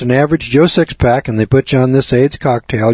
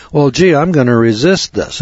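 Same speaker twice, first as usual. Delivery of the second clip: crass mocking voice; 4 semitones higher than usual. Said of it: "would be that crass to say".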